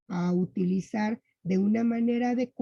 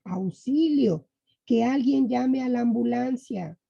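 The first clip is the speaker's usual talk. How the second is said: a slightly raised, mildly alarmed call for help; mock cry for help; 3 semitones higher than usual. Shown as a demonstration. Teacher reading an exclamation example as a mild mock cry for help. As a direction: read it like a call for help, without going all out. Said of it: "ya tenemos nosotros aquí un ejemplo".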